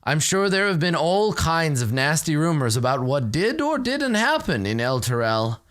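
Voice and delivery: a hint of a gracious old cleric; noble npc voice. GM voicing Thavius NPC.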